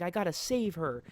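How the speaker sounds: high-pitched play-acted urgency; hammed-up desperate resolve; mock desperate boy. Boy vowing to rescue trapped mother, mock desperate. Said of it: "He's like".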